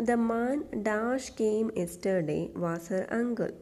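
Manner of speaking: slow, deliberate exam question read-out; slow dictation reading. Shown as a demonstration. Teacher reading a PSC question aloud slowly. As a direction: read each word slowly for the class. Reads exercise sentence slowly.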